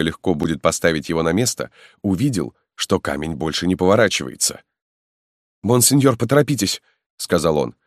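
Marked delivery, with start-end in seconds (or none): 5.6-6.8 put-on higher, urgent young man's voice; a loyal lad pressing his lord to hurry; eager young peasant. Halmalo urges the marquis to flee, high and eager.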